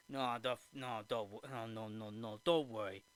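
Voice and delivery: low, soft, repeated mock reassurance; Geppetto. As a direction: murmur it over an attempted explanation. Geppetto brushes off explanation, acted.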